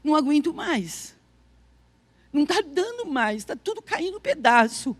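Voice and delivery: softly retold plea of giving up; subdued, worn-out prayer, retold; surrendering to God. Retelling her prayer to God while crying in the shower, softly surrendering. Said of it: "me entregando mesmo, dizendo assim".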